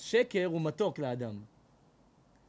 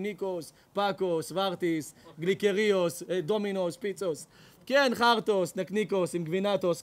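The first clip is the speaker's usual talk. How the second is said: mock priest gibberish; 4 dB louder than usual.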